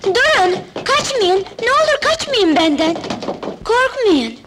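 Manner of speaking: imploring call to stop; gentle pleading. Acted. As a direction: beg them softheartedly to stay, pitch lifted. Begging frightened dwarfs not to flee.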